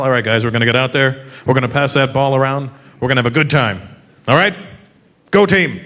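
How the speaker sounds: lightly voiced low pep talk; a hint of a coach rallying the team; upbeat team captain. Other countries' captain in the huddle, low easy pep talk. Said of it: "when they get in their huddle".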